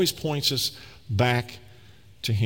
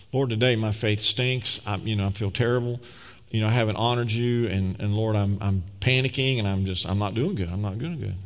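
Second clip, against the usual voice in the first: honest prayer; 5 semitones lower than usual. Retold or imitated. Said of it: "sometimes we need to say that".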